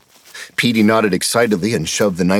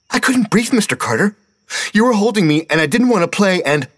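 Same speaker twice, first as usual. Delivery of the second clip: put-on very high, pleading kid; whining child; 14 semitones higher, 3 dB louder than usual. A narrator's reading. Steve protesting to Mister Carter, high whine. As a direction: plead your case fast.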